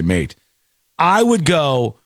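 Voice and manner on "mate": "mate." said as one dropped, falling word in a light Aussie accent; the Australian "mate." with a short falling end. Shown as a demonstration. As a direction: tag the word "mate." with a hint of Australian twang. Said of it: "because I have to say".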